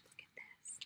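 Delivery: almost silent, hushed wonder; tiny whisper. Real, not acted. Peeking at a full tube of bits, tiny whisper. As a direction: whisper it to yourself.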